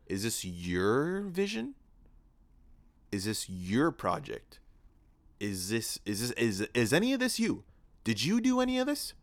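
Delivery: mock interrogation climbing to high and loud; indignant questioning. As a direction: grill them, rising in pitch with each question. Acts out scolding himself over the film.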